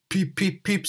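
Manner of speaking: whistle it as Henry the engine; Henry's whistle. Acted. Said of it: "said Henry".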